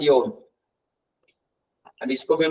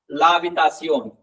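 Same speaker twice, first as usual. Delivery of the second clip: ला habitación said slowly, ला stressed; slow, clear article; much slower than usual. Shown as a demonstration. Teacher correcting students, slow stressed ला habitación. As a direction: spell out ला habitación slowly, leaning on ला. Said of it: "ये ला है ना".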